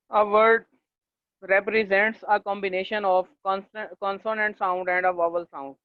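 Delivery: very slow, word by word, for note-taking; slow dictation. Shown as a demonstration. Teacher dictating a definition to students, very slow. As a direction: read it out slowly so they can write.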